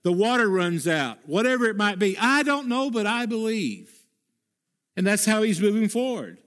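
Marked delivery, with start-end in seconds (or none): 2.2-3.9 higher, ringing declaration; pitched-up preacher's refrain; emphatic refrain. Shown as a demonstration. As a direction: lift it like a creed. Repeated refrain, raised high.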